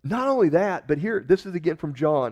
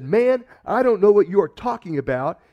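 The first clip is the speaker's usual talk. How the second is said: loud, raised "I don't know what you are talking about"; heated denial; 6 semitones higher, 7 dB louder than usual. Acted. Peter denying the third time, heated and loud. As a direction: snap back in exasperation.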